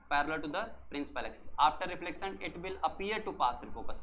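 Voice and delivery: slow, word by word for notes; slow dictation. Shown as a demonstration. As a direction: dictate it slowly so students can write. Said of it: "कैसी आई बेटा?". (धीरे धीरे लिखवाना)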